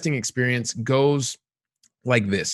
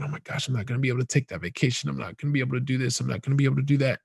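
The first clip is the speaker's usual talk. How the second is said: rushed, softer worried muttering; anxious inner worry; 5 dB quieter, faster than usual. Retold or imitated. Javier fretting to himself about the trip, fast and hushed. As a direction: panic quietly to yourself in a fast run. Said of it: "He's thinking".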